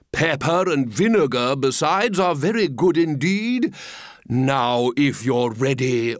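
lightly voiced grand walrus, slowing to the end; a touch of unctuous grandeur; pompous walrus. Walrus readies oysters for the feast, mildly pompous. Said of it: "the walrus said".

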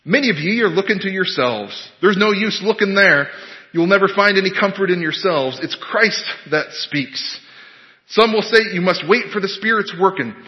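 put-on lightly done rustic Essex accent; mock country Essex preaching. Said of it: "in his Essex accent".

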